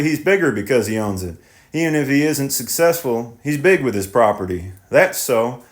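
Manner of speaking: lightly voiced thoughtful farmer; tenant farmer voice. Tenant muses on property.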